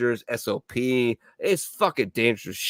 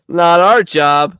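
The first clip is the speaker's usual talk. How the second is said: blunt refusal; 6 semitones higher, 11 dB louder, slower than usual. Retold or imitated. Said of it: "They're like".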